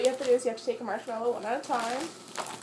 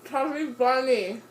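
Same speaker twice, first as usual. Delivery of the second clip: cheeks stuffed full; 4 dB louder, slower than usual. Real, not acted. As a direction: mouth full of marshmallows, slow. Marshmallows stuffed in mouth.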